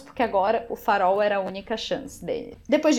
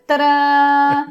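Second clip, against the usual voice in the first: excited reveal; 4 semitones higher, 9 dB louder than usual. Real, not acted. Shows the physical book copy.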